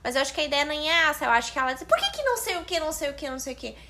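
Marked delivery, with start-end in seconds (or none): 1.9-3.8 fingindo-se de desentendida. Retold or imitated. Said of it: "se fazer de meia louca". (pergunta aguda, fazendo-se de louca)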